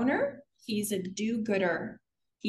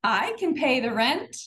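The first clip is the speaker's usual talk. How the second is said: heroic rescuer; 3 dB louder than usual. Acted. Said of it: "Here comes Victor".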